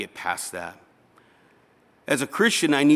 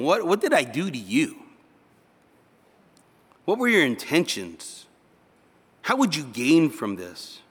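reproachful questioning; 3 semitones higher than usual. Acted. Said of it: "and to be scolded".

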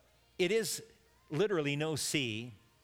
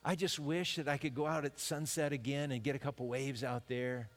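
longing surfer. Retold or imitated. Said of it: "we're gonna be longing for".

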